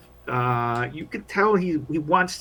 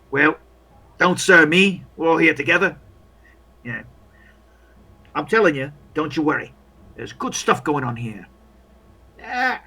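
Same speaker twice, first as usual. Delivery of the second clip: lightly voiced chatty comrade; a hint of an overly friendly soldier; chummy soldier. Soldier getting acquainted with a new comrade, chummy. Game master plays a soldier.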